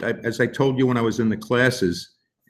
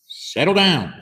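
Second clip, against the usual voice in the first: roared; 8 semitones higher than usual. Acted. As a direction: roar it at the class. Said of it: "Miss Kirby roared".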